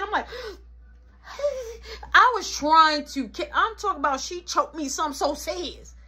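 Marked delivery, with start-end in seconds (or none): 1.3-2.1 high, soft acted wheeze; wheezing gasp. Choked kid answering mama, mock wheezing gasp. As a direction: wheeze as if breath won't come.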